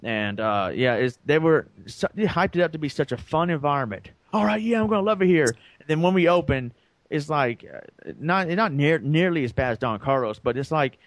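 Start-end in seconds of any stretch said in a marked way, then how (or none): 4.3-5.5 sarcastic imitation of his own early excitement; mock eager. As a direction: play the naive newbie, all hope. Mock naive new hire.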